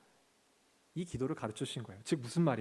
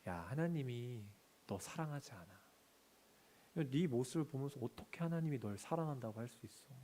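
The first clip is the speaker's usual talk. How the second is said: soft, sneering taunt, often softer; enemy's lying voice; 4 dB quieter than usual. Acted. The enemy taunts a believer, softly mocking. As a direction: whisper lies to tear the listener down. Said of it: "이렇게 얘기하는 거예요".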